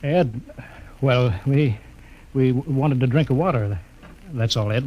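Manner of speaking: nervous excuse. Acted. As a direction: talk your way out, caught and scared. Caught sneaking out, nervous excuse.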